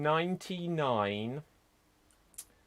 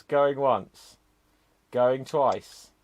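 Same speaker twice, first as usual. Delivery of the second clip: auctioneer call; 9 dB louder, much slower than usual. Acted. Auctioneer closes the round.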